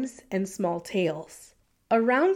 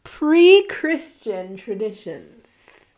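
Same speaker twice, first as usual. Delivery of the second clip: slow careful restart; 6 dB louder, much slower than usual. Real, not acted. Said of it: "Why was that so hard to say?".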